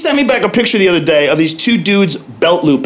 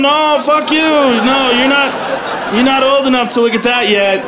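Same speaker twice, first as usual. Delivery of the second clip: mock panic; 5 semitones higher than usual. Acts out fending kids off phone.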